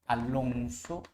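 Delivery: drawn-out dictating voice; slow teacher dictation; slow, soft dictation. Shown as a demonstration. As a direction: spell it out slowly for the students. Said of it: "teacher dictating slowly".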